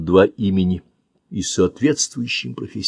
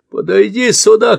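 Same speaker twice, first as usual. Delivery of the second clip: much higher, louder command; shout; 13 semitones higher, 6 dB louder than usual. Acted. Man orders Andy over, shouting. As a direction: bellow at the boy to come. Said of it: "кричит мужчина".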